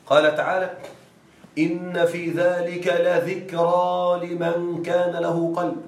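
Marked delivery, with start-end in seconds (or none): 1.6-5.8 slow, drawn-out recitation; Quran recitation. Acted. Teacher reciting a verse for the class, slow chant. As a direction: chant it slowly, savoring لذكرى.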